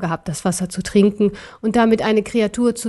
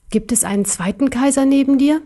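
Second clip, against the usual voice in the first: higher-pitched bear voice; raised pitch, probing question; questioning little bear; 4 semitones higher than usual. Acted. Bear asks a bluffing question. (fragender kleiner Bär, höhere Stimme)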